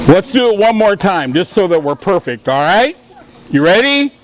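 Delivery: high, bright rallying call. Real, not acted. Rallying kids again.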